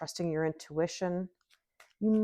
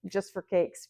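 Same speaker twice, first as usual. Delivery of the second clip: laughing quote; 3 dB louder, slower than usual. Retold or imitated. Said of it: "somebody in my life that always says".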